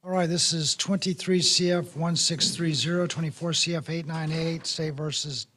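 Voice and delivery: hoarse, strained voice giving out; worn-out, raspy voice; losing voice. Real, not acted. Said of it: "I'm losing my voice here today".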